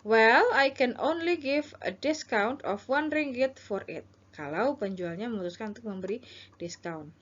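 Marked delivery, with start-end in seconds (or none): 0.1-4.1 seller role. Shown as a demonstration. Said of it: "ini adalah penjual".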